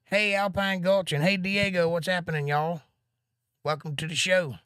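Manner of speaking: high, bright call-out to new viewers; cheerful greeting. Real, not acted. Host greeting live-stream viewers by name, high and upbeat. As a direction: sing out a welcome to friends joining.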